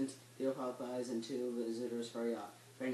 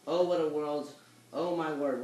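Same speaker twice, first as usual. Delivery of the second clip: dismayed outcry; 2 semitones higher, 7 dB louder than usual. Acted. Servant sees the money lender coming.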